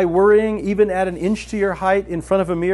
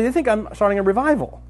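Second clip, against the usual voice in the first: laughing; 2 semitones higher than usual. Real, not acted. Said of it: "So I started laughing".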